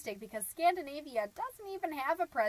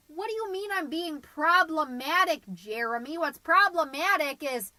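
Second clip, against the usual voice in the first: loud, raised-pitch defensive comeback; indignant snap; 5 semitones higher, 8 dB louder than usual. Acted. Mom arguing with Jeremy about being problematic, indignant snap. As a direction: push back hard, punching the key word. Snapping at Jeremy mid-recording.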